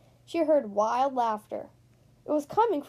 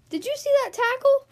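amazed exclaim; 11 semitones higher, 6 dB louder than usual. Acted. Player amazed at tackle.

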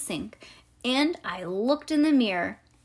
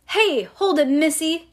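raised, higher grouchy holler; grouchy yell; 6 semitones higher, 5 dB louder than usual. A narrator's reading. Man with the can catching a runaway child, grouchy yell. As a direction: bark it like a grouch. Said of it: "then I heard a grouchy voice".

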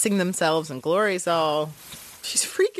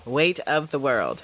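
dramatic intoning; 6 semitones lower, slower than usual. Acted. Dramatic slow intoning of title.

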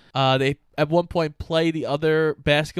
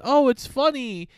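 higher, breezy voice; a filmmaker shrugging off the joke; mock filmmaker; 5 semitones higher than usual. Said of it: "I understand".

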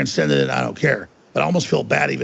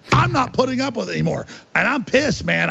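fast, higher-pitched heated venting; real anger; 5 semitones higher than usual. Real, not acted. Guest refusing to put up with smears anymore, heated. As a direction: vent it, fed up and heated.

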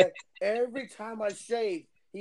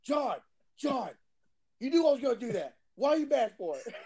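lightly voiced higher-pitched impersonation; Daniel; 4 semitones higher than usual. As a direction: mimic him protesting, a bit higher. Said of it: "the one time that pissed me off, he goes".

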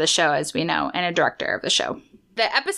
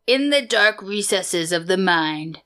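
imitated narration; 2 semitones lower than usual. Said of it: "mimic the voice of it".

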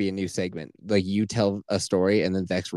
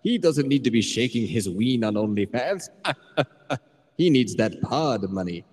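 weird muppet-like voice effect. Pretend. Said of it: "You sounded like that weird guy from Sesame Street".

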